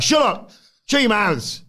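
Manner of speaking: very high mock yell; Cena yelling. Cena storming out at the crowd, a high mock yell. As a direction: scream it at the crowd. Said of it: "John Cena storms out".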